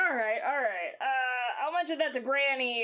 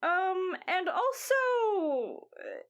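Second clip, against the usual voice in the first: put-on old lady voice. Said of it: "old lady voice".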